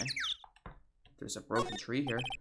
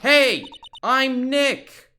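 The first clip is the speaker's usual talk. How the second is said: loud, slow, higher call into the mic; louder introduction; 13 semitones higher, 12 dB louder, much slower than usual. Shown as a demonstration. Trying to trigger a sound camera, loud slow call. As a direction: project it so the camera hears. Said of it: "Maybe I'm not saying it loud enough".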